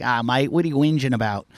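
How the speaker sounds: lightly imitated dismissive Aussie surfer; Australian accent. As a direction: brush it off with an Australian twang. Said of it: "That's very Aussie".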